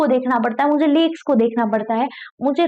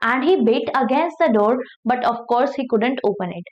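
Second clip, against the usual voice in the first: slow, careful read-aloud of a story; much slower than usual. Acted. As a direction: read each word slowly for learners. Reading the English story aloud. (धीमी कहानी पढ़ाई)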